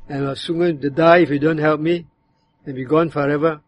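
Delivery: bitter complaint. Shown as a demonstration. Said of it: "that verse can be said in that tone".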